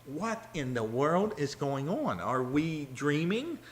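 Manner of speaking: lost-in-a-dream puzzlement; bewildered listener. Acted. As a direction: sound like you can't believe your ears. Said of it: "you're probably sitting there going".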